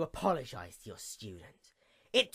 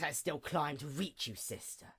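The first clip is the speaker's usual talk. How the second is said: whispered; 10 dB quieter than usual. Acted. Whispered address to sister.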